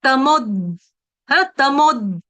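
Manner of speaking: तमोद cut off right at the द; stop on द. Shown as a demonstration. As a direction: pause at the द of तमोद. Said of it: "मैं रुक गई ना".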